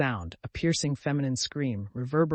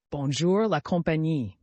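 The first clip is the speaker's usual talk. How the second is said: gaily; 3 semitones higher, 4 dB louder than usual. A narrator's reading. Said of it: "said he gaily".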